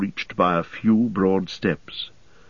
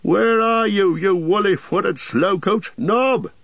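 high, calling landlord voice; impatient innkeeper calling; 12 semitones higher, slower than usual. A narrator's reading. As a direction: summon the lazy servant. Landlord calls for servant.

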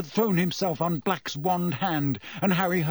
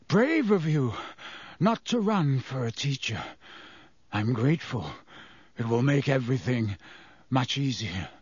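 taunting. A narrator's reading. Black taunting Harry.

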